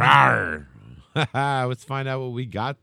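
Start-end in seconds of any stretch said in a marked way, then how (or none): 0.0-0.7 dinosaur voice. Retold or imitated. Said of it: "That was the greatest fucking commercial".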